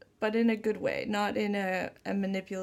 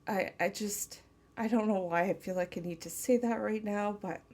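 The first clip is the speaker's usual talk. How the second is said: tender channeled lover. Acted. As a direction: speak as if to the one you love, gently. Channels partner's loving message.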